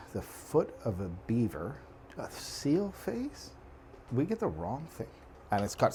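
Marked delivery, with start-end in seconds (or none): 2.2-3.5 silly high drawn-out. Acted. Absurd ingredient joke.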